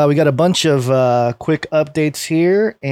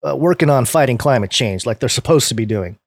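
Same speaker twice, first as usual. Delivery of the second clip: sarcastic; 4 semitones lower than usual. Real, not acted.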